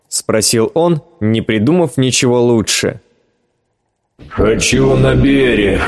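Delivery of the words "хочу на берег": gurgling. Acted. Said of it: "пробулькал голос Бондаря".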